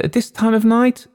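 can't believe the late request; incredulous operator. A narrator's reading. Telephone operator doubting a call to Gloucester, incredulous.

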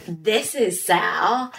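slow, drawn-out mock disbelief; shocked disbelief. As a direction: imitate someone shocked, stretching each word. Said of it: "and was, like, shocked".

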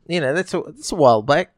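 lightly hammed-up Aussie accent; mock Australian accent. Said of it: "just that weird accent".

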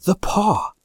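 high-pitched wild outcry; a wife's wild, high cry. A narrator's reading. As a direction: cry out wildly in sudden realisation. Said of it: "she cried wildly".

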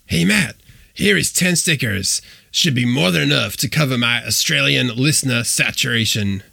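a deliberately bad take on a fellow host; Mike Gutterman impression. Reading the host's letter aloud to listeners, lightly put-on voice. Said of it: "here's my extremely bad imitation of Mike Gutterman".

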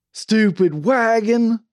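slow, loud, high holler; drawn-out angry shout; demonstrative yell. A narrator's reading. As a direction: yell it with gusto, stretching both words. Demonstrates how Claude should yell.

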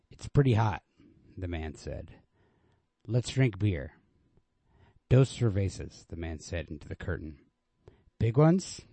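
steady, even literary reading voice; story narration. A narrator's reading. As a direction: read the story plainly and evenly, letting dialogue lift. Reads Hemingway story aloud.

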